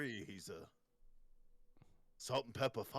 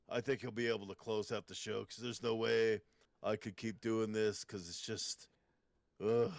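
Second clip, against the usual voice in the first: put-on Austrian accent; 4 semitones lower than usual. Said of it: "Your Austrian accent with a little Scottish".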